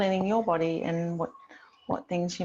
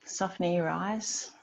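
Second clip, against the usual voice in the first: calm yoga centring with long pauses; guided meditation. Real, not acted. Yoga teacher settling the class into breath and body, guided meditation. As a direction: settle them gently, leaving space between phrases.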